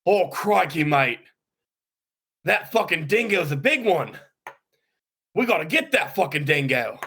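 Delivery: hammed-up Aussie, crikey mate; lightly done Australian bloke after a dingo; Australian accent. Australian accent, urging a mate to shoot the dingo. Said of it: "We're doing our Down Under accents".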